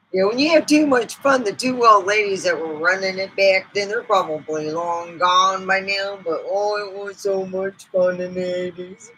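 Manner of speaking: a hint of a chatty old lady telling family stories; mildly put-on folksy lady; snake lady voice. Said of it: "Let's bring out Miss Snakers herself".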